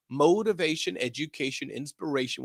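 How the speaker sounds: deliberate, measured delivery; slow down and give each word its room. Shown as a demonstration. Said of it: "Let me say that slower".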